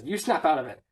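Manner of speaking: low-key snap-out-of-it retort; acted retort. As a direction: hand the order back, still fairly contained. Slapping quarrel, first retort.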